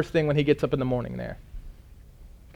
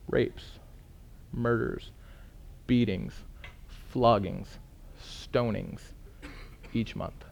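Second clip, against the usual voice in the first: hushed list; 4 semitones lower, 11 dB quieter, slower than usual. Real, not acted. Listing violence against Christians.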